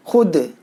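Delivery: खुद said as khud with the waw sounded as u; wrong pronunciation. Shown as a demonstration. Teacher showing students the mistake in reading खुद. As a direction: mispronounce खुद on purpose. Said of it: "खुद नहीं पढ़ना है".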